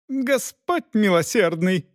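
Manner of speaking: put-on high, slow shocked squeal of a noble girl; high squeal to the Lord. A narrator's reading. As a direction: squeal it out in outrage. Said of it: "взвизгнула дочь графа".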